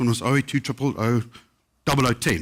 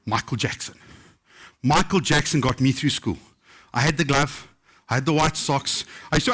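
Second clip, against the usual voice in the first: ordinary talk, nothing marked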